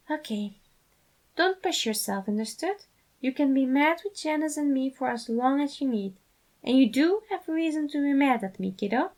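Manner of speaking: lightly voiced dad, pressing his point; insistent father. A narrator's reading. Patton insists the boys may be mad. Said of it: "Patton insisted".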